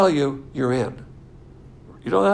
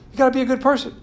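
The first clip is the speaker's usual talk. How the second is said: mock preachy believer; 8 semitones higher, 5 dB louder, much faster than usual. Mocking new believers' preaching.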